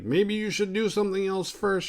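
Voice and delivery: high, put-on hesitant suggestion; mimicked high anxious voice; nervous stalling. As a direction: pitch it high, trying to put him off. Retold nervous stalling as he breaks through.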